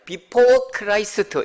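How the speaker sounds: English in a heavy Gyeongsang accent. Shown as a demonstration. Preacher owning up to rough pronunciation, Gyeongsang-accented English. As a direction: say it slowly with a Gyeongsang Korean accent. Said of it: "경상도 발음".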